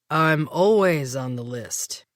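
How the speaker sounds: slow, menacing purr; predatory tone. Acted. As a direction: let the threat creep in. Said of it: "Marcus's voice took on a predatory tone".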